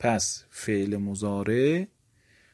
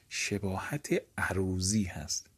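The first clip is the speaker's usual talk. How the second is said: whisper; 3 semitones lower, 6 dB quieter than usual. Real, not acted. Teacher stresses a key term.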